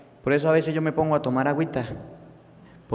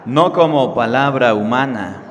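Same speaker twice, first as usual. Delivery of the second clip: slow, loud prayer for the congregation to repeat; call-and-response prayer, slow and solemn; leading a prayer; 3 dB louder, slower than usual. Acted. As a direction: pray aloud line by line, slowly. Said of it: "Digan todos después de mí".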